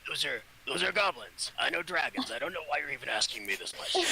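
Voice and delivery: a hint of a grumpy dragon; lightly voiced dragon, fast at the end. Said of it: "I forget my, my dragon voice".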